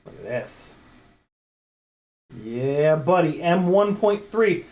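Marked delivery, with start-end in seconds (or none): 0.1-0.8 hushed whisper to camera. Real, not acted. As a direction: breathe it out. Shows screw closely.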